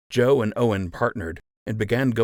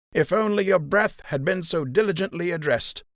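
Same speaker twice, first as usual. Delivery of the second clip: higher, dry mocking retort; mocking gray buck; 10 semitones higher than usual. Old buck mocking the captain's foul breath, dry contempt. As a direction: needle the captain with cool contempt.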